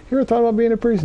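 high-pitched imitation of an older woman; old parish lady. Old lady asking a young man after Mass, imitated high voice. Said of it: "an older woman, an old lady from the parish".

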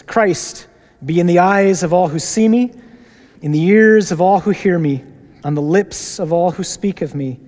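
loud, measured group prayer, each line a call; praying aloud. Acted. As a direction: lead the congregation through the prayer with full voice.

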